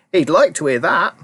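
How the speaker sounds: put-on a proud old grandma chiming in. A narrator's reading. Grandma Josephine boasting to Charlie, high old voice.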